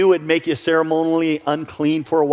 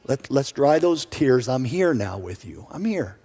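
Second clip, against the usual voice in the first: tender reassurance; 3 dB quieter than usual. Acted. Speaking comfort to grieving moms.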